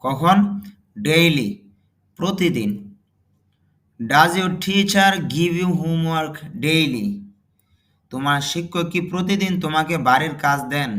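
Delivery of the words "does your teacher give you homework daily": slow model reading. Shown as a demonstration. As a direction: dictate it word by word for learners. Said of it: "teacher models English sentence slowly". (ধীরে ধীরে জোরে পড়া)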